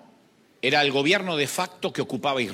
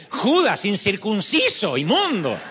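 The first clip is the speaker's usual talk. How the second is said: raised, louder mock scolding; mock insults; 5 semitones higher, 4 dB louder than usual. Wife mock-insulting her husband.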